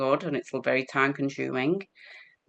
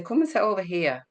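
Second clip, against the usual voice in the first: gentle coaxing; 6 semitones higher than usual. Retold or imitated. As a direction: coax a lost resident to sit. Soothing a wandering patient.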